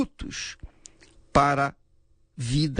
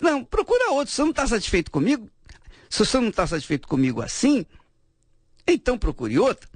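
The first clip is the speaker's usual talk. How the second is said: fast and higher, brushing him off; mock dismissive wife; 7 semitones higher, much faster than usual. Wife telling her husband to go find another, fast and dismissive. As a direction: rattle it off like a fed-up wife. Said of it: "a palavra da mulher que disse".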